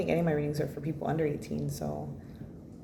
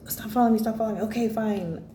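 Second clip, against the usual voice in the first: cartoon snake voice; 5 semitones higher, faster than usual. Narrating a funny meme, high, annoyed little snake voice. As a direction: voice a tiny snake complaining at the camera.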